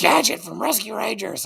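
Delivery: high-pitched manic impression; mock drunk squeal; Christopher Lloyd in Roger Rabbit. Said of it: "he sounded like Christopher Lloyd in Roger Rabbit".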